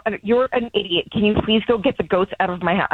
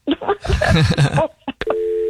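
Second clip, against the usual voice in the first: relieved laughter; 5 semitones higher than usual. Real, not acted. Laughs after prank.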